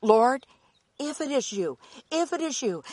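eager urgent plea. Acted. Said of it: "Peter said to him".

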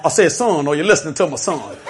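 Foghorn Leghorn. Retold or imitated. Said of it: "I could have done like Foghorn Leghorn".

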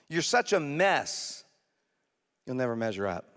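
accusing enemy. Acted. Satan condemning a struggling sinner, building accusation. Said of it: "But then he'll say".

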